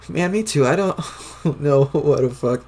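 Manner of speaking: excited. Acted. Excited agreement, high and loud.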